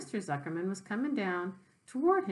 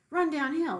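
cows calling; 7 semitones higher, 5 dB louder than usual. Acted. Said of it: "suggested the cows".

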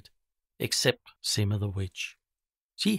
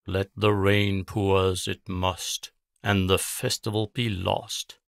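a witch chanting over her knotted string; witch incantation. Acted. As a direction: intone the curse like a ritual. Witch casting a spell.

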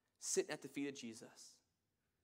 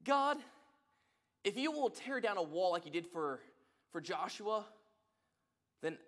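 man's demanding calls; 4 dB louder than usual. Retold or imitated. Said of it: "He says".

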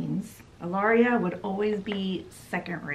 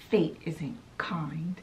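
slow, hushed and bitter; bitter whisper; 3 semitones lower, 6 dB quieter, slower than usual. Retold or imitated. Ilaria alone in her room, a slow bitter whisper. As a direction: whisper it to yourself in the dark.

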